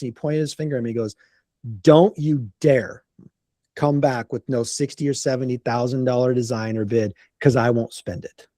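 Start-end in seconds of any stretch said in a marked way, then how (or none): 1.8-8.5 a deliberate don't-you-dare from the client; serious warning. Retold or imitated. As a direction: lay down the law to the contractor. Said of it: "he looked at me very serious".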